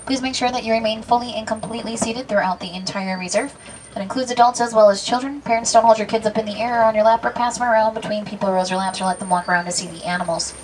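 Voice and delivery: safari guide spiel. Acted.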